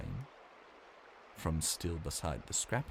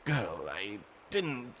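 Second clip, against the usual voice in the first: pleading; slower than usual. Acted. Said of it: "Ivan pleaded".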